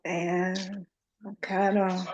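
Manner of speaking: ordinary delivery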